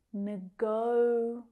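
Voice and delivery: "Negotiate" slowly, with GO held long; stress on second syllable. Shown as a demonstration. Teacher showing learners where stress falls, "Negotiate" slow with stressed GO. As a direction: stretch "Negotiate" syllable by syllable, leaning on GO. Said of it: "stress is on the second syllable".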